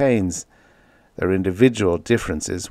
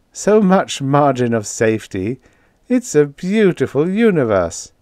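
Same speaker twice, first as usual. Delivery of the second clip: higher, contented lilt; beaming contentment; 6 semitones higher, 4 dB louder than usual. A narrator's reading. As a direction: let pleased contentment lift the voice. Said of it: "Fitzhugh beamed his contentment".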